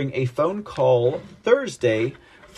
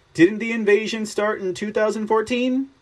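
mock Zelensky; 6 semitones higher than usual. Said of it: "he asked the public".

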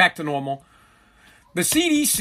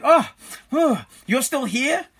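lightly voiced family member, feigning surprise; a hint of an unimpressed wife spotting him still at home; mock surprised family; 3 semitones higher, slower than usual. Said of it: "They're like".

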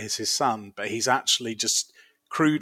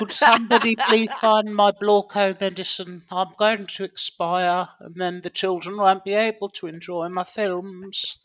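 higher, put-on voice, a moaning invalid star; sickly Blorko voice; 6 semitones higher than usual. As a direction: ham up the fading film star Blorko, slowing on expire. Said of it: "It's, it's actually uncanny".

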